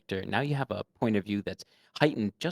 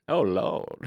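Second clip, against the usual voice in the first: light Southern accent from Georgia; a touch of Southern Georgia lilt; 3 dB louder than usual. Shown as a demonstration. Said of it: "I have that phrase".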